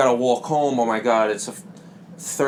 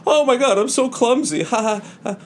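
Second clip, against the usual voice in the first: witch voice; 10 semitones higher than usual. Acted. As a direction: squeal like a clumsy old witch then cackle.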